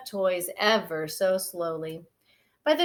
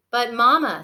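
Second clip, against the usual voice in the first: pleading; 2 semitones higher, 7 dB louder than usual. Acted. Sister pleads with Mama.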